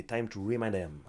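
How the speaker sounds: English read with a French accent; halting French-accented English quote. Real, not acted. Fan reading out Thomas Pinal's English post, French-accented English. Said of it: "désolé pour l'accent".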